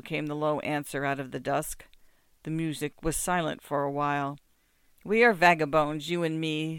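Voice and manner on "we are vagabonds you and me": morose. Acted. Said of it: "morosely and meditatively".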